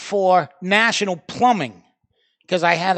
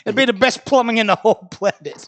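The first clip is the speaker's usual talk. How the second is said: sarcastic reply; 3 semitones higher than usual. Retold or imitated. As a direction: ham up the fake enthusiasm. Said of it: "I go".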